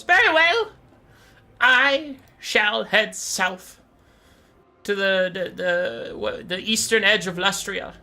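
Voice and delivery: high, loud, pompous bird-demon voice; Malagor. Acted. Gullible bird vows to seek the map, high pompous voice. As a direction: announce the quest with hammed-up grandeur.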